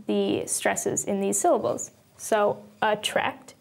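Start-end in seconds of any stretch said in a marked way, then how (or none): 2.8-3.5 "attract" drawn out slowly, weight on "tract"; stress on second syllable. Shown as a demonstration. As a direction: lean on the second half of "attract". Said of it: "emphasis in the second half of the word".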